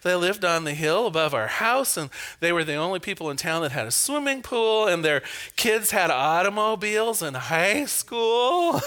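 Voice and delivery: a touch of huffy protest, quick; lightly indignant son defending himself; retelling a childhood argument, mildly indignant. Retold or imitated. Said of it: "I said kind of indignantly".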